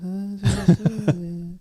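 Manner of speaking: softly sung wordless high note; gentle high wordless croon; soft mock singing. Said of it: "up there singing softly".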